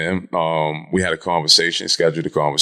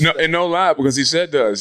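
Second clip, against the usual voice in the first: ordinary talk, nothing marked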